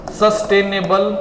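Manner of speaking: ਸਸਟੇਨੇਬਲ drawn out very slowly, syllable by syllable; slow dictation. Shown as a demonstration. Teacher to class, dictating the key word, very slow. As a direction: spell out ਸਸਟੇਨੇਬਲ slowly so students can write it. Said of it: "ਆਪਾਂ ਇੱਕੋ word ਯਾਦ ਕਰਨਾ ਹੈ".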